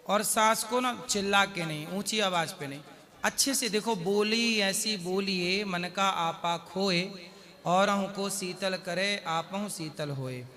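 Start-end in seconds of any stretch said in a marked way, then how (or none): 4.0-10.5 slow, measured verse recitation; reciting a doha. Shown as a demonstration. Guru recites a couplet on sweet speech, slow and measured. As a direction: draw out each word of the couplet gently.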